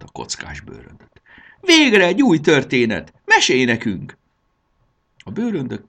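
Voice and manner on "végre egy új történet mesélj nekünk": high, loud eager exclamation; excited plea. A narrator's reading. Táska Mása begs Jakab for a story, excited plea. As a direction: burst out begging for a tale.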